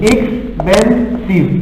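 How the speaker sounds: Expensive said very slowly, syllable by syllable; slow demo word. Shown as a demonstration. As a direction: stretch out Expensive so each syllable is heard. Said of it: "Look, look, expensive".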